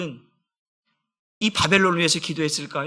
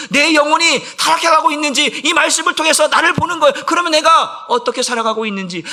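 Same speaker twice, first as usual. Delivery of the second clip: high, forceful pulpit delivery; impassioned preaching; 7 semitones higher, 6 dB louder than usual. Real, not acted. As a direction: drive the warning home with fervor. (열정적으로 외치는 설교)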